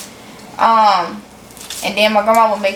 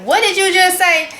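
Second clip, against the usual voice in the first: puzzled listeners; 7 semitones higher than usual. Retold or imitated. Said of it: "'cause people be like".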